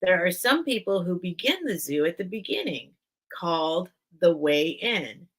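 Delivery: measured storybook reading; story narration. Acted. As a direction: read aloud phrase by phrase, with lilting emphasis. Reads book introduction aloud.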